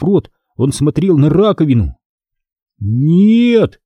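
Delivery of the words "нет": usual speaking voice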